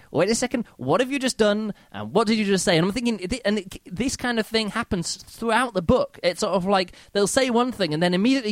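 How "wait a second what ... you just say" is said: disbelief. Retold or imitated. Reacting in disbelief to character.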